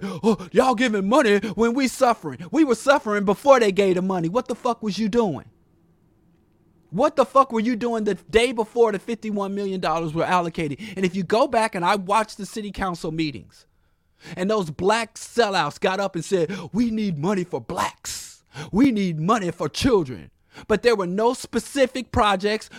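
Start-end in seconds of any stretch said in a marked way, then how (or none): 0.0-4.3 sing-song mock of the politicians; mocking whine. Mocks whining politicians. 16.7-20.3 mock politician plea. Mocks sellouts at council.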